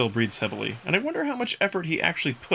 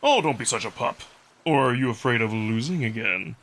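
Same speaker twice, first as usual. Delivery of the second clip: Amicus the wolf, light playful teasing. Acted. Wolf Amicus teasing the tired narrator, playful role voice. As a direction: needle him gently like a friend.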